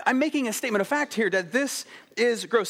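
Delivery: put-on high-pitched kid stating a fact; imitated child spelling it out to dad; earnest mock-child insistence; insistent six-year-old. Voices son insisting on fact.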